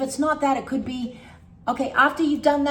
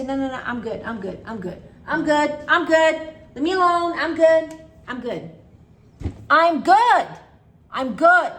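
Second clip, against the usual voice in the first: loud, higher "I'm good" bursts; yelling at yourself; 4 semitones higher, 7 dB louder than usual. Shown as a demonstration. Coach shows yelling "I'm good" at your own thoughts, loud. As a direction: shout the thought away. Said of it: "You have to yell at yourself".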